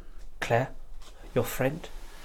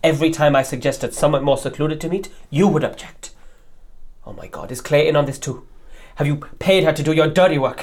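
louder, pressing hard; angry accusation; 5 dB louder than usual. Acted. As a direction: corner him with each charge. Heated accusation of betrayal.

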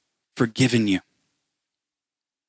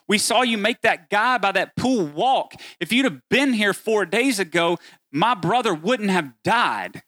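raised, pleading voice of a grieving sister; lightly voiced Martha, higher and urgent; 4 semitones higher than usual. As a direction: press Jesus with hurt and disbelief. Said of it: "what Martha is saying is".

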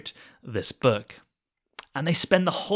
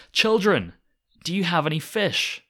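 calling out; 7 semitones higher than usual. Retold or imitated. Jesus calling out from the shore to the tired fishermen, high call. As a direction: call out high across the water. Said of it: "he cries out to them".

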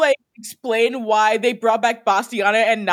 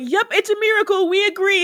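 higher-pitched, mock-earnest agreement; gullible witches agreeing; 8 semitones higher than usual. Other witches going along with the schemer, mock-credulous. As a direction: imitate followers who buy it completely. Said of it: "every other witch is like".

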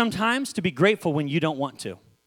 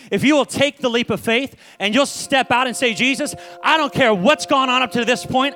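sustained, driving preacher appeal; fervent preaching; 5 semitones higher than usual. Acted. Preacher urging church to step out in faith, fervent. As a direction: build a fervent call to the congregation. Preaching to a climax over music.

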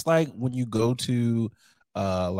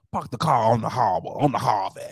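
lower, badly faked Boston accent; attempted Boston accent; 3 semitones lower than usual. Shown as a demonstration. Podcaster trying out a Boston accent for his co-host. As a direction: practise Boston vowels, clumsily. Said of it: "I'm gonna try it".

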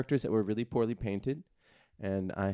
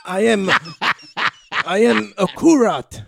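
much higher, louder slow put-on accent; mock Asian accent; 10 semitones higher, 9 dB louder, slower than usual. Elf cleric player introducing himself loudly in a put-on accent. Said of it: "auditioning for Kim's Convenience".

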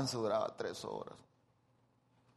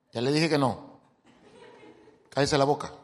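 snapping wife; 5 dB louder than usual. Retold or imitated. Wife snapping back at husband.

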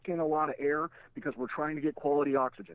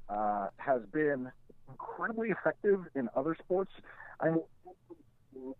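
garbled bad phone line; muffled like he's underwater; slower than usual. Real, not acted. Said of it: "You're underwater again".

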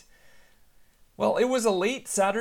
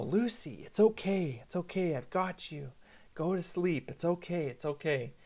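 soothing. Retold or imitated. Dad holding his screaming daughter in his arms, soothing. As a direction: settle a crying child back to sleep. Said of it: "try to calm her down and soothe her".

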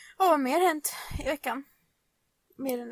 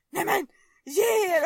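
exasperated mom; 6 semitones higher, 8 dB louder than usual. Retold or imitated. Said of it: "mamma bara".

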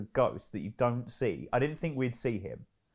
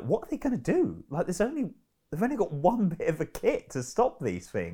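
higher-pitched mock exasperation; exasperated viewer; 5 semitones higher than usual. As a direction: voice your own bafflement, pitched up. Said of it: "at points I'm like".

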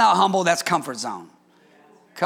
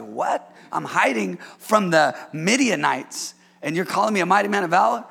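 mock disbelief; 2 semitones lower than usual. Gideon voiced in disbelief.

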